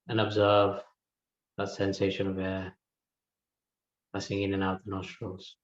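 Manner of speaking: calm, spaced-out meditation instructions; unhurried meditation guide, leaving room to breathe; guided meditation. Real, not acted. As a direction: guide them gently inward, pausing between phrases.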